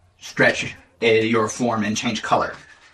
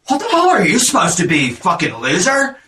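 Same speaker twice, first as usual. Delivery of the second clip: jock bully taunt; 5 semitones higher than usual. Acted.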